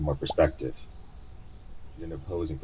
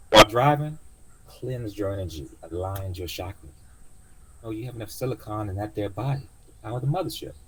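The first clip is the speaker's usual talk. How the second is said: lightly higher, mystic auntie; old cab driver; 5 semitones higher than usual. Acted. Driver explaining cleansing to passenger, light high voice.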